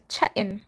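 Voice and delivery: "chatting" with no middle T; "chatting" with a catch where the T was; skipped T. Shown as a demonstration. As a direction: drop the T in "chatting", British-style. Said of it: "they skipped the T".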